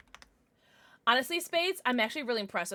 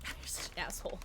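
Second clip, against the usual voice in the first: soft whispered scolding; mild whispered insult; 4 semitones lower, 10 dB quieter than usual. Real, not acted. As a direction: hush it at the pet. Whispering to her pet.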